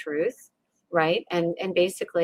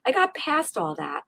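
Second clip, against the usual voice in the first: boastful; 9 semitones higher, 3 dB louder than usual. Retold or imitated. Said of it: "You're like".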